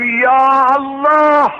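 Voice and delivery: high, slow, drawn-out cry of Ya Allah; desperate appeal heavenward, slow and high; crying out to God. Retold or imitated. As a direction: call out to God from the heart, loud and stretched. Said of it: "یه دفعه اینجوری گفتم".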